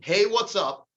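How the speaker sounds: lively upbeat "Hey, what's up?"; mildly excited friendly hello; excited greeting. Shown as a demonstration. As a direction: sound pumped to hear from them. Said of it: "You wanna elicit excitement".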